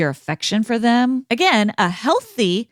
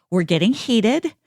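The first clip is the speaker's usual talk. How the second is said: calming down; 2 semitones lower than usual. Shown as a demonstration. Example of calm self-regulation.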